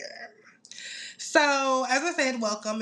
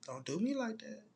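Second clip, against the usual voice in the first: mock plea; 8 dB quieter than usual. Pleading with viewers for grace.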